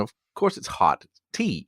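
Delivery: the computer rolling its eyes at you; mock-sarcastic machine voice. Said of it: "preemptive sarcasm from my computer".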